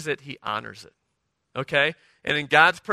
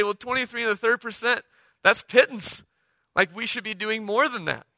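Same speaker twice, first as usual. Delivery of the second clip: scoffing at too little; 6 semitones higher than usual. Pretend. Imagined eager believer scoffing.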